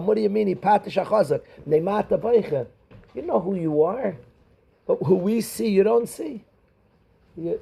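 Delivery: reproachful students. Retold or imitated. Students' reproach voiced to their Rebbe.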